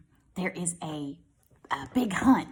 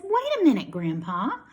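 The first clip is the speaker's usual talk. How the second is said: put-on child's voice; 8 semitones higher, 6 dB louder than usual. Child stopping grandpa.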